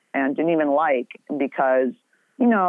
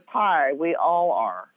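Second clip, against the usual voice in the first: support group greeting; slower than usual. Pretend. Answering the friend like a support group, slow mock greeting. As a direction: say it like introducing yourself at a recovery meeting.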